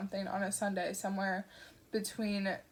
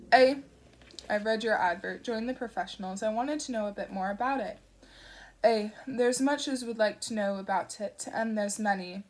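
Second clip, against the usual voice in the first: put-on rumbling old voice; 4 dB louder than usual. Shadwell answers Newton's call, gruff and rumbling. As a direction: rumble it like a damp old raincoat. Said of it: "a voice the color of an old raincoat rumbled".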